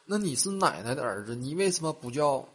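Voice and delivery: put-on a touch of puzzled kid; curious little boy. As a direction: press Dad like an inquisitive small son. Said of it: "然后他小儿子就问".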